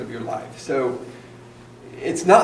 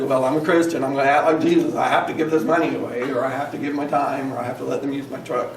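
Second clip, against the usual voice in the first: mock complaining; faster than usual. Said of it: "Not complaining that you have to do it".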